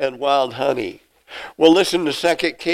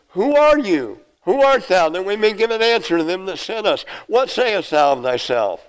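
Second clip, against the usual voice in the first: pressing questioners; 4 semitones higher than usual. Acted. Envoys from Jerusalem demand John's identity, higher pressing voice. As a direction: press him hard for an answer. Priests pressing John for answer.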